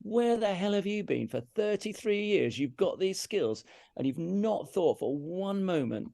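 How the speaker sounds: self-reproach. Retold or imitated. Musician berating himself on the drive home, exasperated. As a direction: scold yourself, leaning slowly on the words.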